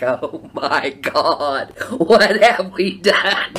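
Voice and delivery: very slow, drawn-out dismay through laughter; laughing mock dismay. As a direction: stretch it out, laughing at your own panic. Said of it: "I was like".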